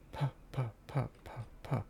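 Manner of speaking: soft mouthed footstep pa sounds. Pretend. Streamer voicing footsteps for the game. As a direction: tap out the steps with little pa noises. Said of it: "I'll make sound effects".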